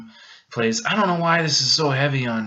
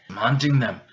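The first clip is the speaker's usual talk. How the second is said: put-on British accent. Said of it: "You know, British words".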